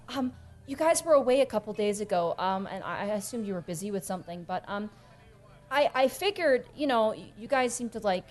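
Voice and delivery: lightly voiced shy visitor; hesitant Helena. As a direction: feel your way into an awkward request. Plays Helena, hesitantly approaching.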